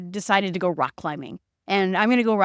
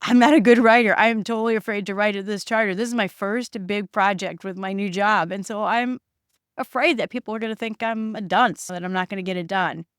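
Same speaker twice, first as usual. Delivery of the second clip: fearful; 3 dB louder than usual. Acted.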